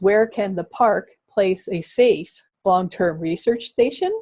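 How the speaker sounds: "safe" set apart and emphasized; stress on safe. Real, not acted. Presenter posing the park's question to teachers, stress on "safe". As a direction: lean on the word "safe". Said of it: "I emphasize the word safe".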